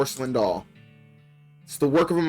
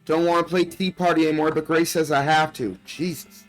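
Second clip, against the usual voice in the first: lightly voiced young girl, a bit higher; little girl voice; 3 semitones higher than usual. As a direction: read it like a frightened child's diary. Reads little girl's diary aloud.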